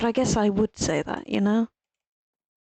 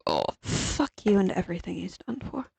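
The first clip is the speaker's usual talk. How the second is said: Scottish accent; 5 dB quieter than usual. Shown as a demonstration. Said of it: "the Scottish one that happens almost exclusively when I'm tired or angry".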